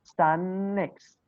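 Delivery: "stand next" with the d dropped, stan-next; slow teacher demo of "stand next" run together; linked stand next. Shown as a demonstration. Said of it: "We will say stand next".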